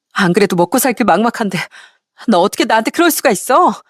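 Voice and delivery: acted indignant demand with rising pitch; brazen, loud-mouthed. Ex-wife demanding he take responsibility, brazen and indignant. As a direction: insist shamelessly, as if the wronged one. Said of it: "큰소리 떵떵 치는데".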